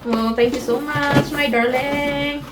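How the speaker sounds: slow, drawn-out loving thanks; sweet thanks. Real, not acted. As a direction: speak sweetly to him. Thanking husband on camera. (malambing na pasasalamat)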